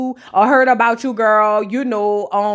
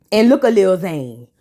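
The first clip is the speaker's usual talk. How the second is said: lower, dry, plain pace; low knowing call; 5 semitones lower than usual. Shown as a demonstration. Vlogger pointing at the husband again, low and deadpan. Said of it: "repeated catchphrase said low".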